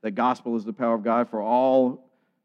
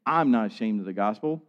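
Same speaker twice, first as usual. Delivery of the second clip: "I'm" given the emphasis; stress on I'm. Retold or imitated. Preacher repeating Paul's words to the church, stress on "I'm". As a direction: put the weight on "I'm" at the start. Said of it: "putting the emphasis on that word".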